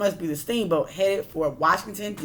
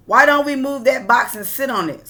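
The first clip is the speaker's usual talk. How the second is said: a second worker; 6 semitones higher, 7 dB louder than usual. A narrator's reading. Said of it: "said another".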